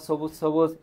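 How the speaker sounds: সবুজ সবুজ said with S, "sobuj sobuj"; "sobuj" twice for সবুজ সবুজ; S-sound demonstration. Shown as a demonstration. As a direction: open each সবুজ on S instead of SH. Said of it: "এইভাবে তো হবে না".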